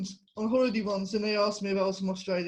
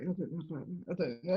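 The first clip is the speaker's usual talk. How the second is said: reluctant; 3 semitones lower, 7 dB quieter, faster than usual. Retold or imitated. Retelling her reluctant reply.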